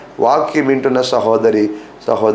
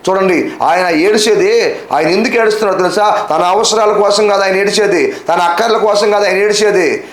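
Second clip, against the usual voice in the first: raised-pitch, rhythmic preaching cadence; insistent preaching; 5 semitones higher than usual. Real, not acted. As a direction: drive each repeated point home. Preacher drives home repeated points. (పట్టుదలగా, లయబద్ధంగా ప్రసంగం)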